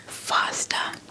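ordinary delivery

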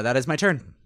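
ordinary talk, nothing marked

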